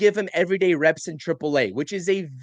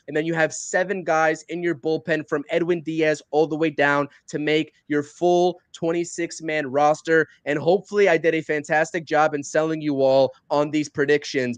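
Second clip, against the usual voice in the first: out of breath. Real, not acted. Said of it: "because I'm a little bit out of breath".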